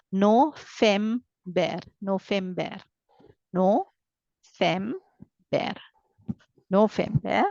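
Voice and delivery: no fem bear split into syllables, V as f; German November. Shown as a demonstration. Teacher splitting German November into syllables. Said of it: "I should read it as fau sound".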